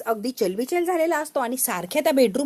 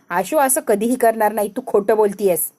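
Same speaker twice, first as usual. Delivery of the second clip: firm angry denial; 5 dB louder than usual. Acted. Wife rejects accusation.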